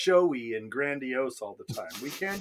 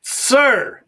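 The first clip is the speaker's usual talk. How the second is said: mock formal praise; 9 dB louder than usual.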